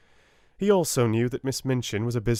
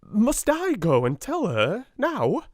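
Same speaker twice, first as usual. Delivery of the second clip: panting; 13 semitones higher, 5 dB louder than usual. Acted. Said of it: "panted Miss Amelia".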